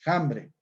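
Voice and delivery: "hambre" said with a rough j sound at the start, like "jambre"; "hambre" starting with a harsh aspirated j. Shown as a demonstration. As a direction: breathe a strong j into "hambre". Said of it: "la J le absorbe a la H".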